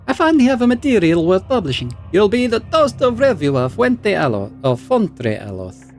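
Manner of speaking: high, gushing researcher; delighted scholar. Acted. Scholar thanks Aloth, high and gushing. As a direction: savour the coming fame. Belasag voice.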